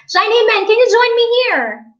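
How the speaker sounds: high, loud call to a viewer. Real, not acted. Teacher inviting a viewer to join her live, calling out high and loud. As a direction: call out brightly pitched, urging them over.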